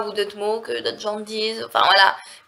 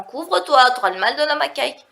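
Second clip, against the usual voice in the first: put-on higher-pitched warning to a child; mock parental warning; 4 semitones higher than usual. Speaker imitating someone warning a child, mock nagging. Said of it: "Vous, vous voyez dire ça à un enfant".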